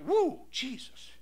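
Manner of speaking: stunned exclamation. Retold or imitated. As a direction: re-enact being bowled over, stretching the cry. Shocked, legs started shaking.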